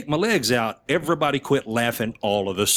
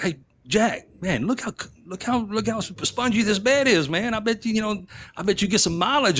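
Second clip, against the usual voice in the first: joking around; 9 semitones higher than usual. Retold or imitated. Joking to Jack about bed.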